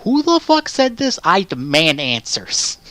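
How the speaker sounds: high, slow, loud outraged demand; outraged shout. Retold or imitated. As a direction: yell it in mock outrage at the comment. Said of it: "that I'm like".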